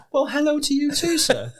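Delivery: put-on high-pitched old-England greeting; hammed-up olde English gent accent. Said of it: "Why are we like in old England?".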